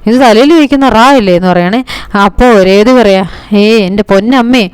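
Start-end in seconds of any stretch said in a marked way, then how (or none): 0.1-1.3 mock puzzled wonder. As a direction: act baffled by a strange gadget. Chandra puzzled by the headset. (അമ്പരപ്പോടെ, ഉയർന്ന സ്വരത്തിൽ പതുക്കെ)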